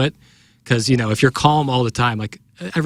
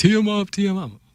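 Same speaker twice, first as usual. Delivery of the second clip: put-on taunting scream, high-pitched and loud; 9 semitones higher than usual. Retelling a basketball game where the other team screamed at the speaker, imitating the screaming. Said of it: "The other team screaming at me".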